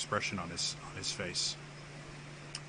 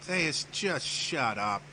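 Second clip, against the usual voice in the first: exasperated; 5 semitones higher, slower than usual. Acted. Aramis cuts off the rambling Theus.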